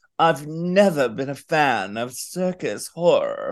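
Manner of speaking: acted snooty, haughty, superior tone. Quoting what the other person said earlier, in a mock-snotty attitude. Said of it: "with a real snotty attitude".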